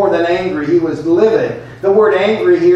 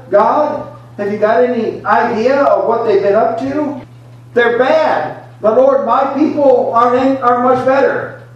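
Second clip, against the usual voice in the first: angry Jonah; 6 semitones higher than usual. Acted. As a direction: protest to God, voice climbing. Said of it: "second reason for him being so upset".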